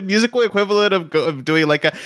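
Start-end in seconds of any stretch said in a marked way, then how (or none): none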